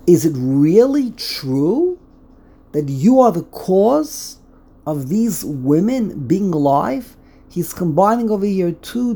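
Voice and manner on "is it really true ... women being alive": slow, rising on really; disbelieving, each word weighed; incredulous question. Shown as a demonstration. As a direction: ask it slowly with rising doubt. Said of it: "has a dual meaning".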